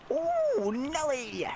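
a squeak that slips out; squeaky exclamation. Real, not acted. Gamer squeaking with excitement at the match. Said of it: "I keep going squeaky".

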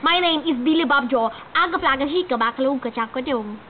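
low mock Russian man; deadpan, put-on Russian accent. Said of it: "Russian accent".

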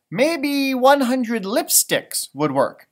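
lightly voiced sister offering; Laura's suggestion. Laura suggesting at dinner, slow and light. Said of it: "said Laura".

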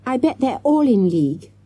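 conspiratorial. A narrator's reading. Conspiratorial child whisper.

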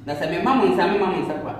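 solemn prayer voice calling on the ancestors; libation prayer. Real, not acted. Priest pouring libation for the gods, solemn prayer. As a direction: speak to the gods as you pour the drink.

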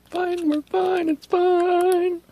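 hammed-up "everything's fine" voice; mock reassurance. To viewers while rushing, hammed-up fake calm. Mock-calming herself in a rush.

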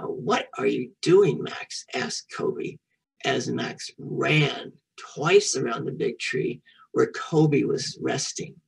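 slow, measured read-aloud; story reading aloud. A narrator's reading. Teacher reading a picture book to children, slow story reading. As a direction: read it slowly for young listeners.

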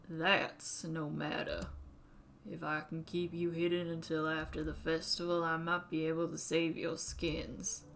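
put-on old Southern man voice; southern accent. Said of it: "when I do a southern accent".

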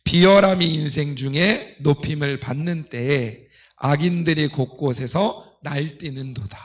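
ordinary talk, nothing marked

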